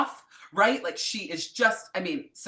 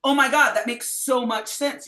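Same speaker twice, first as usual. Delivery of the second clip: a touch of aha delight; 6 semitones higher, 7 dB louder than usual. Retold or imitated. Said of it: "you're like".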